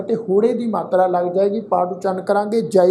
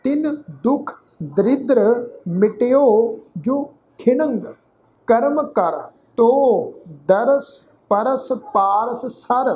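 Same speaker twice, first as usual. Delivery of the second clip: slow, careful scripture reading; slow recitation; slower than usual. Shown as a demonstration. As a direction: recite each phrase slowly for students. Recites scripture slowly for learners.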